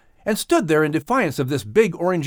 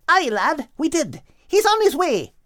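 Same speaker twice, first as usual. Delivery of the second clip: higher, grinning gull voice; Krinan grinning; 13 semitones higher than usual. A narrator's reading. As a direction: smile through the good news. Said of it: "replied Krinan with a grin".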